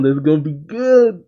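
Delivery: eager, rising buildup; excited anticipation. Real, not acted. Fan looking forward to the fight, excited. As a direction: relish the coming showdown.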